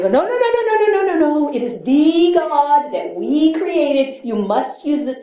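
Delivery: mock the stuffy elders' insistent no; mock Oxford group objection. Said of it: "they'd go".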